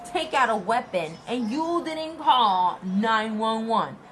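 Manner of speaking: high, loud, incredulous really; mock outrage at a useless bystander; disbelief. Scolding the UPS guy in disbelief, loud and high. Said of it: "Like, in my head".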